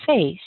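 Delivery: "face" with a long hissed f at the start; stretched voiceless opening on "face"; long F demo. Shown as a demonstration. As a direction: hold the f of "face" before the vowel. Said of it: "So if you can say".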